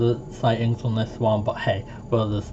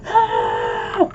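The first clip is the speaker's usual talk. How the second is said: retold yell; 13 semitones lower than usual. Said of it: "they were going".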